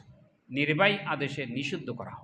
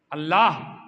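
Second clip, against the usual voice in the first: louder, retold cry to Allah; imitated crying out; 7 dB louder, slower than usual. Pilgrims at the Kaaba calling on Allah, imitated cry. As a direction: call out to God, as if quoting a pleading crowd. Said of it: "তারা চিৎকার করে বলছিল".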